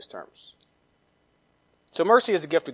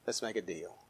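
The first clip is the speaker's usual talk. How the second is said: quieter sly plea; 9 semitones lower, 18 dB quieter than usual. Retold or imitated. Pharaoh repeating his bargain to God, hushed fade. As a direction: lower still, almost under the breath. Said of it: "he began to say".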